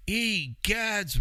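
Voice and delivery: high, hammed-up egads; a theatrical gasp of a word; mock shock. Man hearing dental price, hammed-up shocked exclamation.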